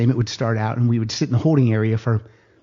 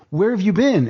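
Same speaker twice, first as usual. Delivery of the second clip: mock angry demand; 7 semitones higher than usual. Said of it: "people are livid".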